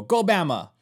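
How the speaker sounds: a light mock stadium shout of Go Bama; lightly imitated college cheer; imitated fan cheer. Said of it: "When they're cheering, they go".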